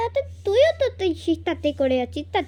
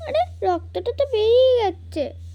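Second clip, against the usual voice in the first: a little higher, put-on tearful complaint; fake crying; 4 semitones higher, 3 dB louder than usual. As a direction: sob it out to win sympathy. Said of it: "মিথ্যে কাঁদিস না রে দিদি".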